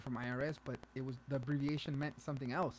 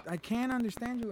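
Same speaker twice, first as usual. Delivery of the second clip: high, loud complaint; mock exasperation; 9 semitones higher, 6 dB louder than usual. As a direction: insist loudly, acting fed up. Repeats exasperated reply, louder.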